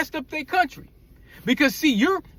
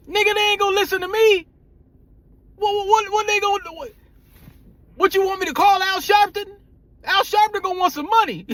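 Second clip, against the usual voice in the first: exasperated; 6 semitones higher than usual. Real, not acted. Exasperated reply to friend.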